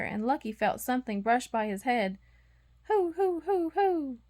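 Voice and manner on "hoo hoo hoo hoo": high, hollow owl hooting; owl hoots. A narrator's reading. Narrator imitating an owl hooting at the lost puppy. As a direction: hoot it like an owl in the trees.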